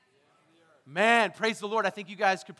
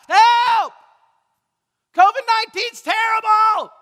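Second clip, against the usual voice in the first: high, full-force cry of alarm; shouting out; 12 semitones higher, 16 dB louder, slower than usual. Acted. People who don't know God, shouting out. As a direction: yell it as a plea for help. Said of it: "who are still shouting out".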